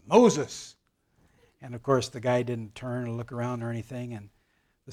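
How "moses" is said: loud call. Retold or imitated. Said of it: "said in a loud voice".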